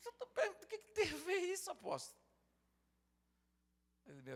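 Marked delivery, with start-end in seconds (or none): 0.1-2.2 flustered high voice. Retold or imitated. Flustered reply to the apostle.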